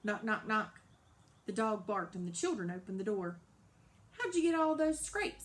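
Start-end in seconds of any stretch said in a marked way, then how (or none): 4.1-5.4 put-on surprised child. Child asks worriedly.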